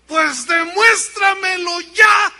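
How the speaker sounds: high, loud, slow demand; wife finally demanding proof from her husband, shouting; fed-up wife. Acted. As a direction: slam each word down, out of patience.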